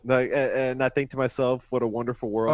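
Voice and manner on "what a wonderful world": lightly gravelly jazz croon; sing-speak like a jazz singer; impression of a jazz singer. Host mocking a cohost's impression of a jazz singer. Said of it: "Oh, a jazz singer".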